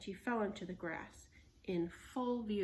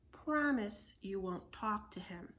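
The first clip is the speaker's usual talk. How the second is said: stern. Acted. Stern slow demand.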